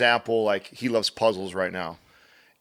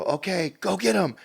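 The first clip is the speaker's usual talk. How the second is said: teacher calling out; 9 semitones higher than usual. Retold or imitated. Teacher starting the egg hunt.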